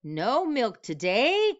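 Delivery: high, slow disbelieving question; can't believe the note; cried out in dismay. Acted. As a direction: farmer cries out in shock at the strike. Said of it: "cried Farmer Brown".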